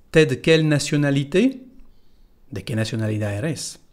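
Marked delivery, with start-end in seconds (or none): 0.1-1.6 "t'es de" merged, natural rising question; once more, "t'es de quelle nationalité?"; native contraction. Shown as a demonstration. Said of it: "Otra vez".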